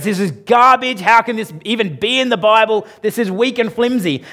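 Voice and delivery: hammed-up outrage at the letter; fired-up rant. Preacher voicing Luther's rage at James, mock furious. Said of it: "He gets fired up and he goes".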